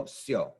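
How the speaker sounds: "sio" said as a single "syo"; no break inside "sio"; blended vowels. Shown as a demonstration. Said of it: "Blends together".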